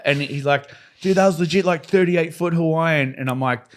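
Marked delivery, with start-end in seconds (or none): 1.0-3.2 excited friend. Retold or imitated. Friend amazed at the wave.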